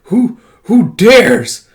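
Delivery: a disturbed being demanding who dares; menacing otherworldly voice. Acted. A being in the other world challenging intruders, slow and menacing. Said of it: "in the other world you have".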